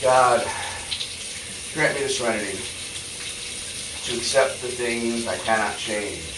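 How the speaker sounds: prayer. Acted. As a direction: pray it earnestly, line by line. Serenity Prayer recited thrice.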